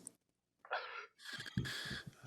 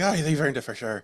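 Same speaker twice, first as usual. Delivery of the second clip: imitated Irish tour guide; retold quote in an Irish accent; 2 semitones higher than usual. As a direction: put on a casual Irish lilt. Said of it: "He's this Irish guy. He's like".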